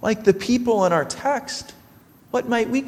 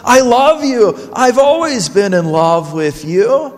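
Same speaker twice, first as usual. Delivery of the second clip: louder, heartfelt plea of love; hurt, pleading confession; 5 dB louder than usual. Retold or imitated. Young man pleads his love to the girl who left, hurt and shocked. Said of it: "Feeling confused and hurt and shocked".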